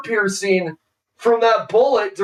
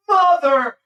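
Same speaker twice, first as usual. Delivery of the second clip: mock pained curse; 7 semitones higher than usual. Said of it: "you're like".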